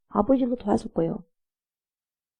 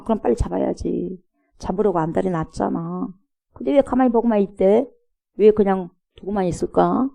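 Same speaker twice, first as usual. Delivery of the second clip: mocking sarcasm. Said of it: "이렇게 빈정거리는 거죠".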